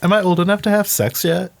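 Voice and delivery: put-on childish voice. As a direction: ask like an innocent child. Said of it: "the most, like, childish voice".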